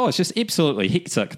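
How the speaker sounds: warming up a Kiwi accent; New Zealand accent. Shown as a demonstration. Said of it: "get me into the ... New Zealand accent".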